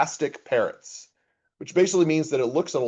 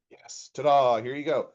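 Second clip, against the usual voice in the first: presenting. Shown as a demonstration.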